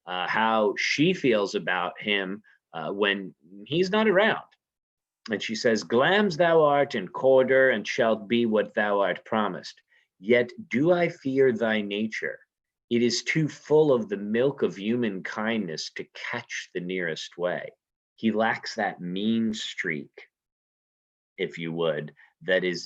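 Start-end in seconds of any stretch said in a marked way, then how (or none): 5.8-17.7 reading Lady Macbeth. Acted. Teacher reading Shakespeare to the class, lightly dramatic. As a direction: read it like Lady Macbeth plotting.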